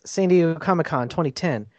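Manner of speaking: a light Aziz Ansari-style read, punchy on "first time there"; Aziz Ansari impression. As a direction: read it like Aziz Ansari, with a bit of extra energy. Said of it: "I just read that like Aziz Ansari".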